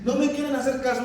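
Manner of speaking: hammed-up weeping Christ, mocking; mock whiny crying. Preacher mocks a tearful Christ, hammed-up whimpering. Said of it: "Imagínese un Cristo llorón".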